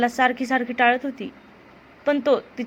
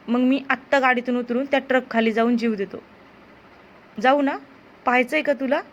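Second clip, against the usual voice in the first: angry threat. Acted. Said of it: "आता तो चिडला आणि म्हणाला".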